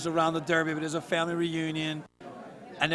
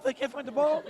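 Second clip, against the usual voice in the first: laughing; 8 semitones higher than usual. Retold or imitated. Retelling a funny family story.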